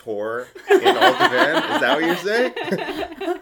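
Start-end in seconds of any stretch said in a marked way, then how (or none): 1.8-3.4 mock outrage.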